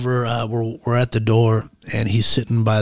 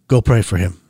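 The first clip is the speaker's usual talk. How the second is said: short, blunt command at everyday pitch. Retold or imitated. Inner prompting sends him to pray, blunt voice. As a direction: say it bluntly, no softening. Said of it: "tells me in, like, a, a blunt voice".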